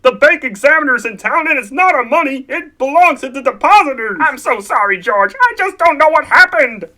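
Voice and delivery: loud, pleading panic; frantic confession of the loss; distraught. Acted. Uncle admitting the lost money to George, distraught.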